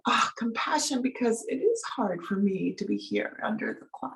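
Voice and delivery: soft, slightly lifted sighing tenderness; quiet, understanding self-compassion; gentle compassion. Acted. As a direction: sigh it out with kindly self-sympathy. Voices compassion for herself.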